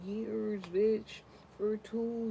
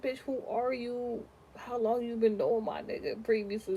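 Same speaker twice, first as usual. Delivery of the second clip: confrontational quote; 3 semitones higher than usual. Retold or imitated. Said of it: "I act like".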